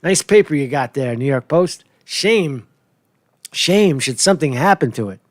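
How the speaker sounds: lightly voiced mob enforcer; smiling menacing loan shark. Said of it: "Sounded like every mob enforcer and shakedown artist".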